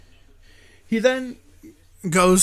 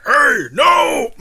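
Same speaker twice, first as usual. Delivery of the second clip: higher, louder protest; mock yell; 8 semitones higher, 6 dB louder than usual. Hero shut in with the body, loud mock yell. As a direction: cry out as the lid slams shut. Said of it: "So he's like".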